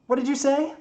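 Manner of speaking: high, loud call back; shouted question. Acted. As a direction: holler back, unable to hear. Builder calls back, not hearing.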